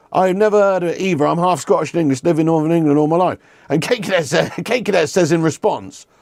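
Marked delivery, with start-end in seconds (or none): 0.1-3.4 innocent chatter quoted. Retold or imitated. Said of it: "All he said to you is".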